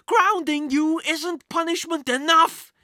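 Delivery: slow, loud, high-pitched scolding; mother's angry yell. A narrator's reading. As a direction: yell it at your son in outrage. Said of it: "his mother yelled".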